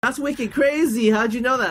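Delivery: high-pitched disbelief, drawing out the first words; mock amazement. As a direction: imitate an astounded Bostonian, hammed up. Retold Bostonian amazed at guess.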